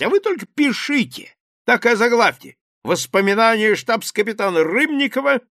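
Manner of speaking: high, loud bluff exclamation; exclaiming captain. A narrator's reading. Captain exclaims to the journalists, loud and high. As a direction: blurt it out like a brash officer. Rybnikov offers to dictate memoirs.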